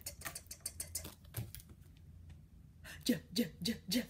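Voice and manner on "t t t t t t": soft voiceless "T, t, t" taps; quiet tongue dancing. Shown as a demonstration. Teacher shows the quiet t sound to kids. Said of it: "Quiet tongue dancing".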